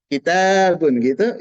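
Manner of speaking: "Kitabun" slow, with the full Arabic ending; Arabic pronunciation. Shown as a demonstration. Teacher showing students the Arabic reading. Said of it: "itu bahasa Arab".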